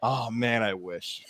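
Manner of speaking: quiet, wistful "I wish" trailing off; wistful murmur of regret; soft wistful sigh. Retold or imitated. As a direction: let it fade out in longing. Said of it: "He goes".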